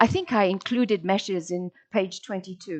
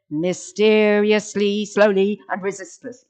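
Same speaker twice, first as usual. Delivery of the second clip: loud level run-through, "slowly" not stretched; too quick "slowly"; 4 dB louder than usual. Shown as a demonstration. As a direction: run "mysteriously, slowly, and resistless" together without pauses. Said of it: "You can't say".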